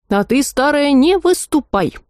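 a hint of a hollering three-headed dragon; dragon heads yelling. A narrator's reading. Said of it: "заорали головы Горыныча".

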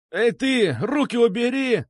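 high, loud squealing yelp. A narrator's reading. Boy squeals at the one pulling his ear, high and loud. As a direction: squeal like a grabbed kid. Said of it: "сразу завизжал он".

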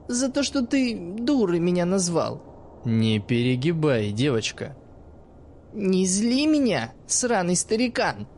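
put-on sly teenage girl talking to the old man; cheeky girl's voice. Narrator voices the girl Iskra.

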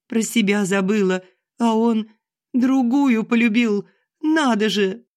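high, wailing lament; tearful wailing. Acted. Wife to daughter about cheating husband, wailing tearfully. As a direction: plead through tears, voice up high. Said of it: "будто завыла тихо".

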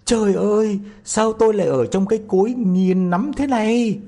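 high, loud startled cry; crying out in surprise. A narrator's reading. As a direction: wake up shocked and cry out. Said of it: "Nó kêu lên".

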